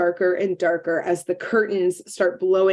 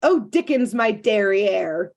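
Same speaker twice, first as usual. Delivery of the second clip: mock haughty Cruella. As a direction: sniff it off like a snob. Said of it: "Cruella goes".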